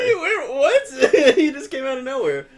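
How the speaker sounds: high, loud startled outburst; jolted by a sudden appearance; surprised. Real, not acted. Surprised by the screen.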